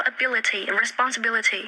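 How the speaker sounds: ability with a crisp British t; ability with a clearly sounded t. Shown as a demonstration. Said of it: "cái âm t".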